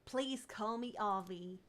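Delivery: slow Texan drawl; a relaxed Texan accent, slowly. Acted. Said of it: "gotta make him Texan now".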